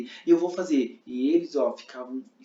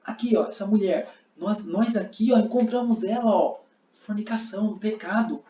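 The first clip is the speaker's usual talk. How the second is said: exaggerated accusing Pharisee, high; fariseu acusador; 5 semitones higher than usual. Shown as a demonstration. (fariseu acusando, voz alta e indignada)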